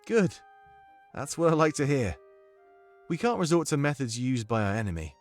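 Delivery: put-on approving British-accented adviser; Domik's comforting accent. Domik advises the new monarch on firm rule, British accent. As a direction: counsel in a measured British accent. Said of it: "I need your comforting accent right now".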